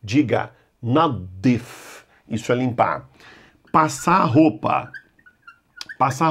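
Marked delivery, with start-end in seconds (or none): 0.8-2.0 nadif slow, the D doubled and stressed; stressed double D. Shown as a demonstration. Teacher drilling nadif slowly, stressed double D. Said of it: "Aqui tem dois Ds devido à sílaba tônica".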